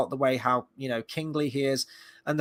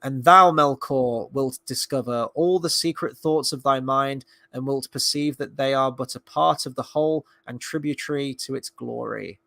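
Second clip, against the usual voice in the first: solemn literary reading. Acted. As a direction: read it out as stately scripture. Reads a Tolkien passage aloud.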